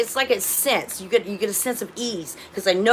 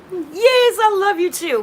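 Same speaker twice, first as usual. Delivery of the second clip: fond high reply; 10 semitones higher, 4 dB louder, slower than usual. Real, not acted. Answering a pet or viewer fondly.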